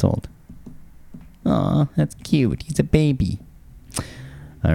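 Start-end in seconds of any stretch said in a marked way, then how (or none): 1.4-3.4 cooing. Real, not acted. Cooing over the three-month-old AI co-host, cooing.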